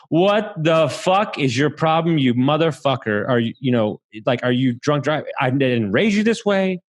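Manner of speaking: mom yelling in anger; furious mother scolding; angry yelling. Retold or imitated. Mom yelling at son in hospital.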